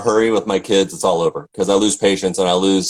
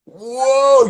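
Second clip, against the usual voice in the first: long, high whoa of amazement; high-pitched wonder; awestruck. Real, not acted. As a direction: let out a soaring, impressed whoa. Awe at a stage performance.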